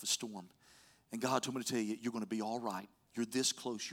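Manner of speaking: low, soft, understated comforting; retold softly, as if consoling someone privately; gentle reassurance. Preacher retelling his word to a woman at the mall, gently reassuring.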